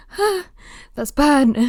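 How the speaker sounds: mock shock at her own sunburn; surprised realisation. After putting the cream on, surprised. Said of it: "you're like".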